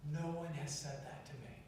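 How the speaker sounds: soft retold reply; softly imitated teen. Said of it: "Just like that".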